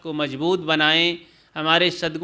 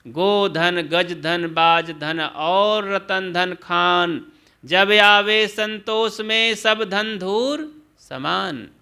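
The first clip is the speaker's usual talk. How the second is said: slow recited verse; slower than usual. Retold or imitated. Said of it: "तभी तो सदगुरु कबीर कहते हैं".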